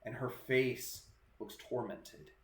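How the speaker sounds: slow, deliberate ghost-story narration; drawn-out narration with suspenseful pauses; game master's scene setting. Acted. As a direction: describe the apparition piece by piece, unhurried.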